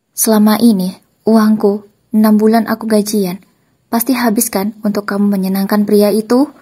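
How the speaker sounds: loud, angry accusing question. Acted. Husband confronts ex-wife about his wasted salary, angry and loud. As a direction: throw the accusation at her, loud. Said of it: "tanya aku dengan nada marah".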